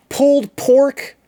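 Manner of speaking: high, slow, drawn-out relish; hyped topping reveal. Pretend. Streamer unveiling pizza toppings, slow hyped relish. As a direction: announce it like a prize, stretching each word.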